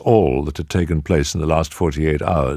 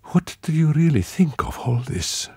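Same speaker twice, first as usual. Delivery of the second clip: grave; 11 semitones higher than usual. A narrator's reading. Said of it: "she asked gravely".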